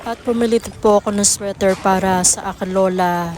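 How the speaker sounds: usual speaking voice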